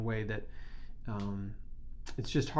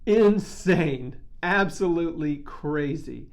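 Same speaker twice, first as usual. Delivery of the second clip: loud, amazed burst; excited exclamation; 2 semitones higher, 5 dB louder, slower than usual. Real, not acted. Thrilled by last year's total, a loud excited burst. Reacting to raising far over goal.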